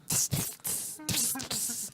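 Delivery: short bursts of hissing "pss"; hissed liquid sound effect; imitated trickle hiss. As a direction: imitate a stream splashing in spurts. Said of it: "you hear a satisfying pss".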